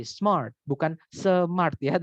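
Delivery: "smart" said slowly as one beat, not split; slow pronunciation demo; one-syllable smart. Shown as a demonstration. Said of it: "itu bacanya cuma sekali".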